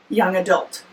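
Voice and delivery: yawning mid sentence. Real, not acted. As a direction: talk through a yawn. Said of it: "Excuse me, I'm yawning".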